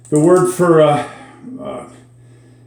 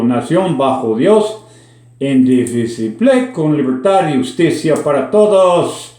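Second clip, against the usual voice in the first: American-accented Spanish. Shown as a demonstration. Former Minnesota pupil reciting the pledge learned in ninth grade, American-accented Spanish. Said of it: "You can tell by my horrible accent".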